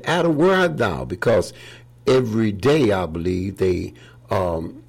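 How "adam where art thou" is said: God calling out. Retold or imitated.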